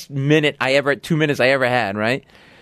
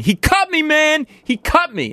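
screaming; slower than usual. Retold or imitated. Retold drunk man screaming he was cut. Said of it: "starts screaming".

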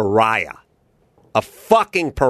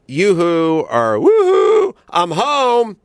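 much higher, louder yoo-hoo calling; grandmother's sing-song call; 7 semitones higher, 4 dB louder, much slower than usual. Retold or imitated. Grandmother calls her husband from the door, much higher. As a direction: trill it like a warning signal. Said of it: "if she said".

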